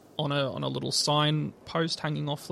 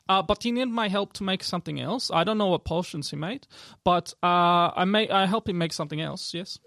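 lightly voiced elf shopkeeper; elf woman; 3 semitones higher than usual. Elf alchemist tells of helping Walter, lightly accented and halting. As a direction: explain haltingly in her accent. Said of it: "elf woman come out".

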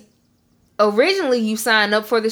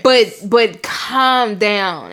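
soothing mom; much slower than usual. Retold or imitated. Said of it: "she just be like".

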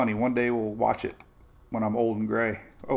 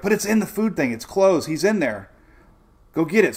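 higher-pitched pleading insistence; mock-urgent, raised voice; retold urgent insisting; 5 semitones higher, 4 dB louder than usual. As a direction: imitate someone urging you on. Retells Julie's worried urging.

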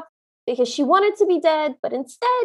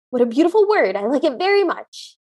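put-on quirky old lady; 5 semitones lower than usual. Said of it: "keeps repeating it and says".

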